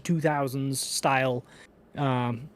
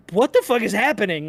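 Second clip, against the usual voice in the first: higher-pitched bewildered question; confused; 6 semitones higher, 5 dB louder than usual. Shown as a demonstration. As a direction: demonstrate baffled disbelief, pitch lifted. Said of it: "he's supposed to be confused".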